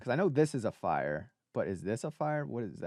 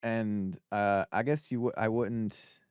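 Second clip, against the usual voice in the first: talking with mouth full. Real, not acted. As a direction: speak through a mouthful of food. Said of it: "but my mouth is full".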